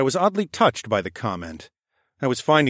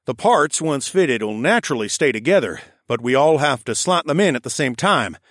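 higher bossy raccoon foreman; raccoon architect voice; 3 semitones higher, 3 dB louder than usual. Acted. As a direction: direct the crew like a brisk little foreman. The speaker voiced as a character.

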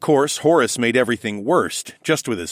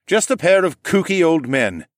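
a hint of a gruff growl, louder; gruff Horace; 8 semitones higher, 5 dB louder than usual. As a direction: grumble at the old men. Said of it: "Horace growled".

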